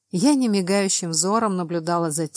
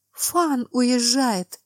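slow, shaky, higher, frightened; trembling whisper; 5 semitones higher, much slower than usual. Acted. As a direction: tremble through it, close to tears. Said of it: "дрожащим голосом прошептала она".

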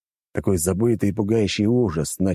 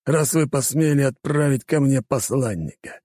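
menacing villain; 7 semitones higher than usual. Acted. Villain's angry threat.

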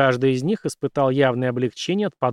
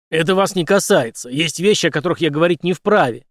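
curt; 4 semitones higher, 7 dB louder than usual. A narrator's reading. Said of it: "отрезал Генри".

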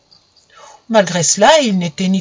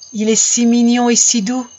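put-on a higher, tender little girl; little girl's voice; 4 semitones higher than usual. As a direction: coo it like a child over a kitten. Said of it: "continuait la petite".

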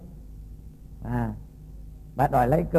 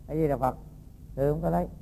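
much softer, calm and humble; soft patient denial; 7 dB quieter than usual. Acted. The monk quietly repeats his denial to the angry woman, softly. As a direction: murmur the prayer meekly.

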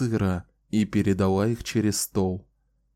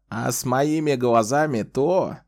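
plaintive; 4 semitones higher than usual. Acted. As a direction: plead it with a mock whine. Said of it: "продолжил он жалобным голосом".

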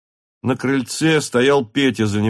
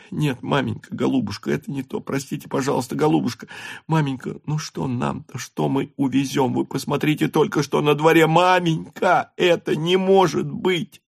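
tearful pleading; 6 semitones higher than usual. A narrator's reading. Natasha begging the countess, tearful. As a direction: beg her mother, near tears.

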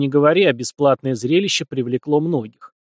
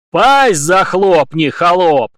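slow, much louder bark; barking roar; 5 semitones higher, 8 dB louder, much slower than usual. A narrator's reading. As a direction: bark him into silence. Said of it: "рявкнул в ответ Руслан".

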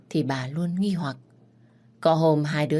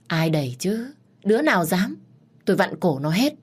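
put-on father raging at the idea someone pushed his boy; angry outburst; 3 semitones higher than usual. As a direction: threaten whoever dared hurt his son. Father furious at threat to son.

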